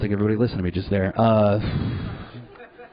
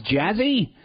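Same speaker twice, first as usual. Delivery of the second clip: puzzled question; 10 semitones higher than usual. Retold or imitated. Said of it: "He goes".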